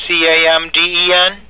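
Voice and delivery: letter by letter, asking; spelling it out. Real, not acted. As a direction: spell each letter, checking. Reading back the spelling.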